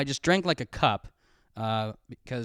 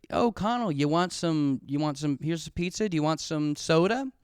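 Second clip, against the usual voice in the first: friend's mom; 3 semitones higher than usual. Retold or imitated. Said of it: "his mom was like".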